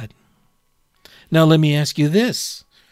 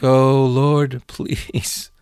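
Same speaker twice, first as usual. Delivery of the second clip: mock plea; much slower than usual. Weary mock plea to God.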